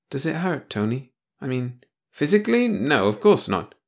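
small, fearful question; frightened girl. Acted. Girl asks about execution.

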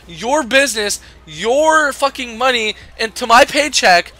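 high, loud, building rant; furious rant. Real, not acted. Cashier ranting at the rude stamp customer, furious. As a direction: vent every word at her.

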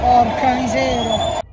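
loud, slow angry curse; frustrated curse. Real, not acted. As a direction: curse the missed chance. Missed chance.

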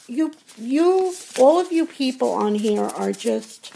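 high, strained voice catching on the words; barely holding it together; choked up. Real, not acted. Telling her viewers what they mean to her, choked up. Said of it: "I get so choked up".

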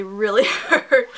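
drawn-out word breaking into a laugh; pained laugh. Real, not acted. Vlogger complaining about her still hurting foot, laughing in pain. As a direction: laugh through the sting, slowly. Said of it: "my foot still hurts".

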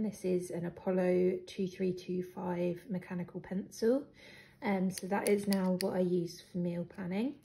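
slightly croaky, hoarse voice; a bit of a croak in the throat. Real, not acted. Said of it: "I've got a really croaky voice today".

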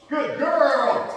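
high, sing-song dog praise; squeaky praising a dog. Real, not acted. Excited praise of dog fetching.

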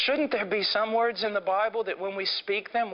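usual speaking voice

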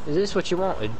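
country accent turning British. Shown as a demonstration. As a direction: attempt country, drift into British. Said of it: "You just turned British".

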